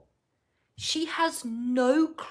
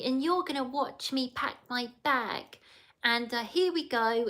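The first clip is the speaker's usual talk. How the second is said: lightly imitated baby talk, a bit higher; 4 semitones higher than usual. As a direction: coo it lightly like talking to a pet chicken. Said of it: "she speaks in a baby voice".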